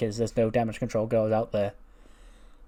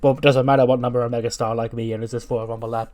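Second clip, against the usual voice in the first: lightly voiced cocky wrestler; mock-confident promo tone; L A Knight; 5 dB louder than usual. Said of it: "He goes".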